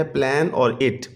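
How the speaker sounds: "प्लान और इट" as two separate syllables. Shown as a demonstration. Teacher dividing planet for pupils, syllable by syllable. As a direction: set "प्लान" apart from "इट". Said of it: "ये भी two syllable word है".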